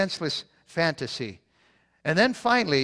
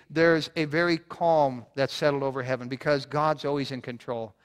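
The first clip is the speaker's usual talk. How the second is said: ordinary talk, nothing marked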